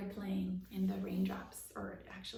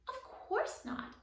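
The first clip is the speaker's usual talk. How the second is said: much higher, slow, aghast; shocked; 13 semitones higher, slower than usual. A narrator's reading. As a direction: recoil at the very thought. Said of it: "Abby looked shocked at the idea".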